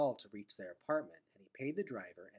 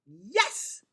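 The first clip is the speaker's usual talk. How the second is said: put-on high, loud little girl's yes; a little girl insisting loudly; emphatic toddler; 8 semitones higher, 11 dB louder than usual. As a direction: blurt it out like an eager toddler. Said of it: "said Boots emphatically".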